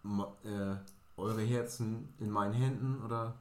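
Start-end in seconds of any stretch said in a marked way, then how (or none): 1.2-3.0 slow, solemn catchphrase; a lightly grand signature line; mock slogan. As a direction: intone it like a surgeon's motto. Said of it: "Signature-Spruch".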